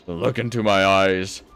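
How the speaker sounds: a hint of a spooky seer; mock fortune teller. Gamer voicing the big-eyed figure, a light mock seer.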